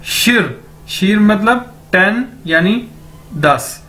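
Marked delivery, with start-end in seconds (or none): 0.1-0.6 शिर with a light r ending; model pronunciation. Shown as a demonstration. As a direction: say शिर with a small r. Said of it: "तो कैसे बोलेंगे इसको?".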